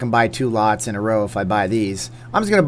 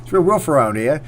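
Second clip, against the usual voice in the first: lightly put-on British rapper voice, laughing through it; hammed-up British geezer accent; mock British accent. Gamer joking about a British casino theme, mock British accent. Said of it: "if a certain rapper was British".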